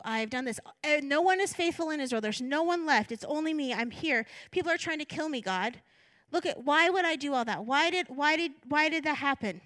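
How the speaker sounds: mildly acted indignant pleading; aggrieved complaint. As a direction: plead your case with a touch of self-pity. Paraphrasing Elijah's aggrieved complaint to God.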